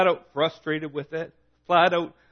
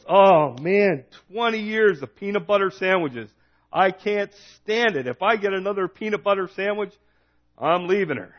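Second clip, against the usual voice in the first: acted fed-up husband, pitched up; mock exasperation; 4 semitones higher than usual. Canadian husband opening his lunch pail, mock exasperated. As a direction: play an exasperated complaint, hammed up a little.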